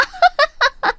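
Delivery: a high, falling sneering laugh; mocking laugh. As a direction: laugh down at her cruelly. 따돌림 비웃는 동창. (깔보는 높은 웃음)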